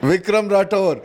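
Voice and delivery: mock film-hero delivery, each phrase set apart; lightly hammed-up cop introduction; movie punch dialogue. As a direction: announce yourself like a Telugu action hero. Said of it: "say the punch dialogue".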